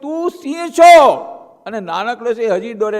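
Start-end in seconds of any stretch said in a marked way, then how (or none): 0.0-1.1 high, loud, slow roaring command; lion's roar. Acted. Big lion yelling at the cub, loud and slow. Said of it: "કેટલી વાર મોટા સિંહે કહ્યું".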